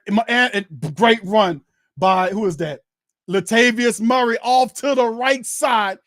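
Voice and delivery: excited fan calling the game live; play-by-play. Acted. Saints fan calling his team's drive live, excited play-by-play. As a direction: call each snap like a broadcaster.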